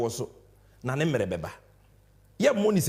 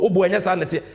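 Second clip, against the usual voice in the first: the same words again, pushed out louder; louder protest; 6 dB louder than usual. Real, not acted.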